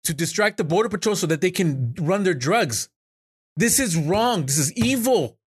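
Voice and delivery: high-pitched, pained outrage; real distress rising in pitch; emotional. Real, not acted. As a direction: plead that it's wrong, upset. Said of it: "I'm sorry I got emotional".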